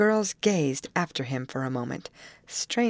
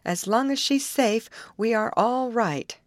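kindly; 6 semitones higher than usual. A narrator's reading. Betty tells the youth not to hurry, kindly. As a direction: reassure the helper kindly. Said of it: "said Betty kindly".

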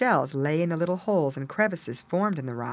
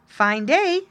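bright, friendly greeting; cheerfully pleasant hello; 9 semitones higher, 5 dB louder than usual. Acted. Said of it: "said Sammy pleasantly".

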